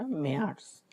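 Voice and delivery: মেয়ার্স said the German way; German März. Shown as a demonstration. German teacher models মেয়ার্স for the class. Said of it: "মানে হচ্ছে March".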